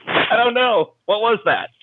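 high, baffled answer; high, puzzled student who just succeeded; bewildered student. Retold or imitated. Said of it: "he's like".

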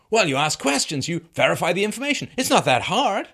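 high, loud mocking quote of Scott. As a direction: parrot him as a smug simpleton. Mocking Scott's easy answer.

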